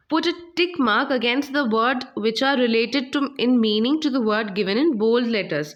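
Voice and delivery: slow, measured reading aloud for the class; slow textbook reading. Shown as a demonstration. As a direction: read each phrase slowly, like dictation. Reads exercise instruction aloud.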